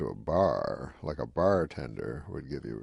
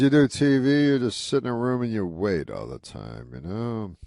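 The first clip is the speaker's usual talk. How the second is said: Rodney, louder; 5 semitones higher, 5 dB louder than usual. Retold or imitated. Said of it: "He goes".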